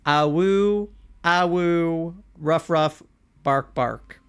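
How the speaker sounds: playful barking and howling; dog noises. Retold or imitated. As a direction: yip it out like a puppy. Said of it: "other things that Sky says".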